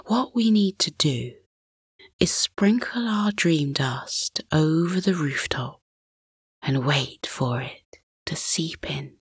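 soft hushed whisper; hushed suspense. Acted. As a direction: whisper so the sleepers don't wake. Father explaining quietly to son at night.

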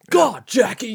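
loud, high cry of Jackie's name; mock exasperated shout. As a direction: shout it like a fan scolding the screen. Fond shout at sitcom character.

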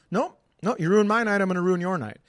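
imitated indignant heckle; mock angry heckler. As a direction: snap back like a booing audience member. Heckler refusing comic's plea.

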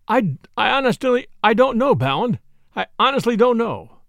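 stumbling, distressed admission; faltering. Acted. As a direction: falter as if close to breaking down. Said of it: "faltered the official".

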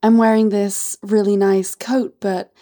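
lightly acted coy seductress; teasing, hesitant put-on accent; Martha May. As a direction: play the flirty visitor. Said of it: "Martha May".

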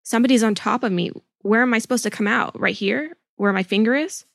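a touch of panic, quick; hurried mock distress.

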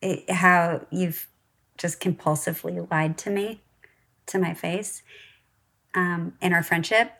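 lightly put-on valley girl upspeak. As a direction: read it like a valley girl with up talk. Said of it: "Why do I sound like a valley girl?".

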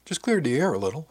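lightly pleased, lifted pitch; said with a grin. A narrator's reading. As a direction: toss it off with a grin. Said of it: "I said with a grin".

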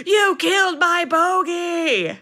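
high, slow shriek of grief and accusation; retold scream. Marianne screaming at Alan over her dead bird, high slow shriek. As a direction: wail it out like she just found the dead bird. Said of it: "She screams".

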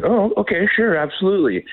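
lightly acted delighted acceptance; eager acceptance. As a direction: retell an eager agreement. Acting out his eager reply.

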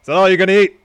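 loud, high-pitched cocky wrestler voice; L A Knight. Acted. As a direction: boom it out like a wrestler cutting a promo. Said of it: "conversation between L A Knight".

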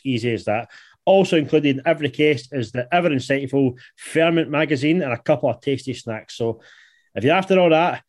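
upbeat sponsor read. Acted. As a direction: sell it like a radio ad. Host reads sponsor ad.

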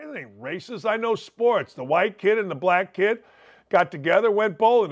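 ordinary talk

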